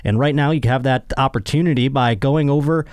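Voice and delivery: upbeat sponsor read. Acted. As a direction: sell it like a podcast host ad.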